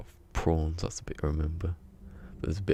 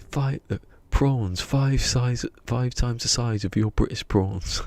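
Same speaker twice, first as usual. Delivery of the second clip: louder, slow, drawn-out boast; loud slow mock brag about prawns; mock Australian brag; 5 semitones higher, 7 dB louder than usual. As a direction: puff up the prawns like a proud Aussie. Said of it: "He goes".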